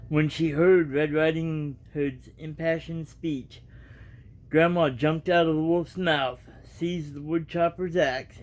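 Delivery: reading a storybook aloud, evenly; casual storybook reading; story narration. A narrator's reading. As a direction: tell the tale to your viewers.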